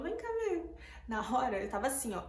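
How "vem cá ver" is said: high-pitched mock yell at normal volume; restrained, high re-enacted shout; retold yell. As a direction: imitate yourself calling out in alarm. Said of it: "eu gritei, eu falei".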